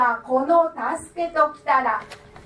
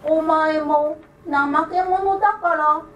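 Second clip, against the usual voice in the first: raised, lightly voiced little old man; creaky wise old man; 3 semitones higher than usual. The idle man asks.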